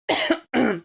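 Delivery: sharp clearing of the throat. Real, not acted. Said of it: "Perdão".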